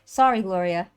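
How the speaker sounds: put-on a light Scottish accent on sorry, Gloria; lightly voiced Scottish apology; a hint of a Scottish brush-off. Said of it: "in a Scottish accent".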